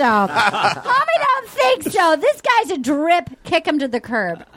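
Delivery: a touch of a sassy J J; laughing, lightly doing J J's voice; channeling J J. Retold or imitated. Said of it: "I just channeled J J".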